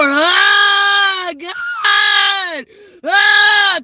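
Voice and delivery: high, drawn-out wailing lament; wailing cry. Shown as a demonstration. Preacher showing how the women cried, wailing. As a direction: wail it out, stretching the cries high.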